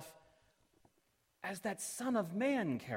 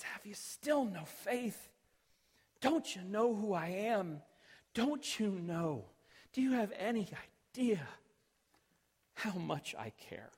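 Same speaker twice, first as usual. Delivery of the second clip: gentle God voice. Acted. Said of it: "he looks at us and says".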